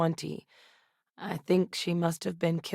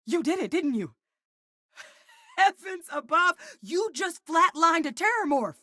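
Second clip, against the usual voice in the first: very high-pitched, thrilled disbelief; astonished congratulations; amazed elation; 11 semitones higher than usual. Acted. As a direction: exclaim with a delighted laugh, pitch soaring. Elated at a Terramorph kill.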